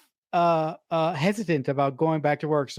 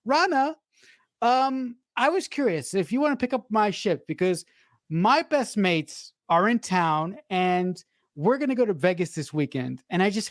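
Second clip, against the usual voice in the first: higher, wheedling mock British co-worker asking a favour; pleading British guy; 3 semitones higher than usual. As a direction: lay it on as the smarmy British guy begging. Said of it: "he goes".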